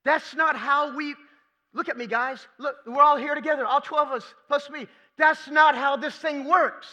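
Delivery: Jesus calling the twelve to listen; voicing Jesus rebuking. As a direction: demand the disciples' attention.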